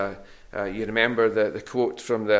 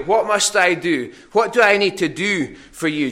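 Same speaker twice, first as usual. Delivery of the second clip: higher, louder, pushy bidder voice; eager rich dealmaker; 5 semitones higher, 5 dB louder than usual. Acted. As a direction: try to buy your way in, keen and insistent. Rich man bargaining with Jesus.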